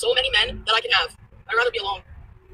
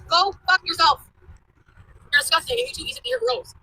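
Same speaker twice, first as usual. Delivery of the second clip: angry curse; 9 semitones higher than usual. Real, not acted. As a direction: hurl it at him. Cursing out ex-husband.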